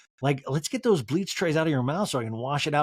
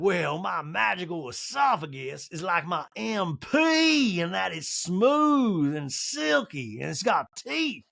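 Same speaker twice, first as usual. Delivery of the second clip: mock Sutton; 3 semitones higher, much slower than usual. Sutton voiced in recap.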